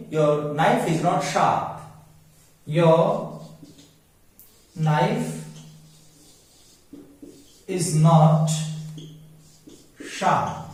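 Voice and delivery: slow, word by word, "knife" said "naif"; silent k in knife. Shown as a demonstration. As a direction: spell out each word, no k in "knife". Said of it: "अब आप देखिए".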